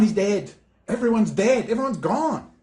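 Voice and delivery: normal talking voice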